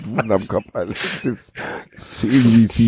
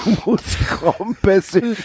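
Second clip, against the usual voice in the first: mock pleading; 8 semitones higher, slower than usual. Echoes the plea.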